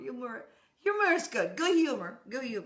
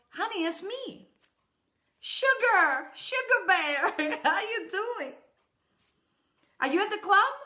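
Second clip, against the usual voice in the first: high, sweet-talking wife cooing sugar bear; wife's sweet voice; 7 semitones higher than usual. Retold or imitated. Wife phoning her husband, sweet high cooing. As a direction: coax him like a wife after a favor. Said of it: "And the woman goes".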